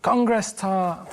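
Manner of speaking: very slow, deliberate code word. Pretend. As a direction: say "Congress tart" slowly and clearly as a signal. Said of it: "role-play phone call".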